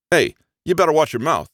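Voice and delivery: playing the big shot for a laugh; mock-tough warning. Little brother hams up a threat to his sibling. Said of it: "giving me an exaggerated glare".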